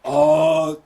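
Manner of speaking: slow, mock-solemn narration; a lightly voiced parody of a heroic voiceover; cheesy Optimus voiceover. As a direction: parody the grand ending speech. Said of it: "mind-blowingly cheesy voiceover".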